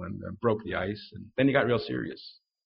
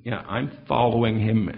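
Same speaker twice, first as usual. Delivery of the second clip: bold declaration; 3 dB louder than usual. Shown as a demonstration. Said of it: "You address them big".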